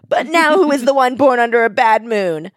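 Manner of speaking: high, hammy villain voice ending in a laugh; cat-witch taunting the dying boy; gloating villain with cackle. Acted. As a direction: ham up the evil victory speech. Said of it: "and she's like".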